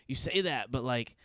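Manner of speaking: lightly imitated buddy talk; Steve-O-like friend. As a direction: quote him with a touch of Steve-O. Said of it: "He sounds like Steve-O".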